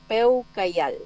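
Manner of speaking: "peucayal" drawn out slowly; farewell word demonstrated. Shown as a demonstration. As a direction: model "peucayal" slowly for a learner. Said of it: "el saludo de despedida".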